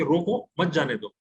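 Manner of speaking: "रोको", a short break, then "मत जाने दो"; pause after first word. Shown as a demonstration. Teacher quoting an order to someone, stop after "रोको". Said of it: "लेकिन वहां नहीं रुके".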